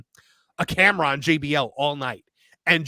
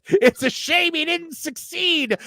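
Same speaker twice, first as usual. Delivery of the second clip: higher, slow dry commentator quip; deadpan commentator line; 11 semitones higher, slower than usual. Retold or imitated. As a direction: deliver it like a dry ringside announcer. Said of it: "Joey Styles goes".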